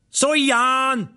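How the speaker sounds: high, echoing call from a stairwell; distant shouting. Acted. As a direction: yell it out across a courtyard. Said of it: "someone kept shouting".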